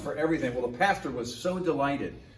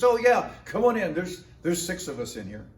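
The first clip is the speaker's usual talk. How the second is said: bright eager greeting, pitched up; cheerful pastor welcome; 5 semitones higher, 4 dB louder than usual. Retold or imitated. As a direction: play the pastor, overjoyed to see a newcomer. Pastor voiced welcoming newcomer.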